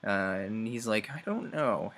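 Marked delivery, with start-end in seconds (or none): 1.1-1.9 mock defensive. Retold defensive reply of character.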